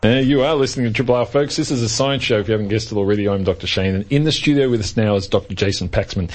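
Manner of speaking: upbeat radio host intro; lively presenter welcoming listeners; bright curious science host. Acted.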